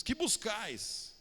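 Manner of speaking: solemn quote. Acted. Preacher quoting Jesus solemnly.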